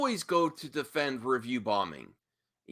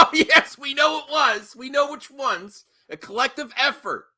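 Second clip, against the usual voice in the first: higher, sarcastic mock agreement; mock him with fake agreement; 10 semitones higher than usual. Real, not acted. Mocking reply after laughing.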